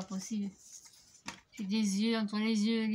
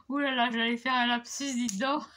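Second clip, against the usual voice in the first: laughing; 3 semitones higher, 6 dB louder than usual. Real, not acted. Laughing over a near slip.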